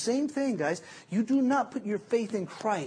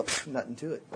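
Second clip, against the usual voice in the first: softer, lower, a shrugging brush-off; mock nonchalant brag; 4 semitones lower, 6 dB quieter than usual. Guy bragging to friends, mock casual. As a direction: play it cool like it was easy. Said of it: "we'll go".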